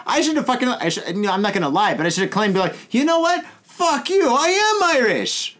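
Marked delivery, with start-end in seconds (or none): 2.9-5.5 high-pitched, emphatic comeback; mock defiance. Imagined comeback to the man doubting him, defiant. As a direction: declare it defiantly, stretching the last words.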